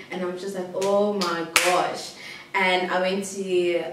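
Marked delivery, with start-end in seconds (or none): 0.7-2.1 slow, drawn-out exasperation; retold weary disbelief, words dragged; exasperated. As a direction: stretch it out, fed up. Exasperated at stubborn boyfriend.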